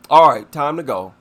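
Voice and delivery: loud, firm call to leave; loud bouncer telling her to leave; firm ejection. Pretend. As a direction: order her out the door loudly. Ejecting the ranting lady.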